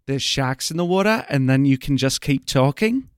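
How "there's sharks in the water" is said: lightly Australian demo phrase; Australian accent. Shown as a demonstration. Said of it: "accent, you start with".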